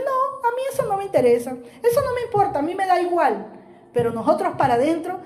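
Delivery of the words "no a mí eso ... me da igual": high, offhand brush-off; dismissive. Retold or imitated. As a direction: wave it away like you don't care. Imagined dismissive reply quoted. (tono desdeñoso y agudo, fingiendo indiferencia)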